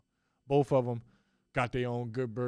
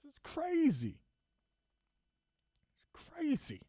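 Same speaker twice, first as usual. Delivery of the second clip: much higher, hushed incredulous voice; imitating Cuban; 13 semitones higher, 6 dB quieter than usual. Owner in disbelief at refs, high hushed voice. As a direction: play a stunned owner in disbelief. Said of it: "he was like".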